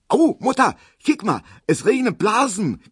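put-on high, loud girlish squeal. A narrator's reading. Little Erna squealing to her mother about the rain. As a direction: squeal it out like an excited little girl. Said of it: "quietscht Erna".

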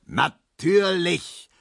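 „Natürlich“ langgezogen und hoch, langsam; gebrüllt. A narrator's reading. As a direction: zieht „Natürlich“ höhnisch in die Länge. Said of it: "brüllte Herr Markowski". (Markowski brüllt „Natürlich“ gedehnt und hoch)

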